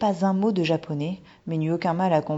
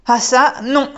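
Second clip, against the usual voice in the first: flat refusal; 8 semitones higher, 11 dB louder than usual. Acted. Boy refuses to follow.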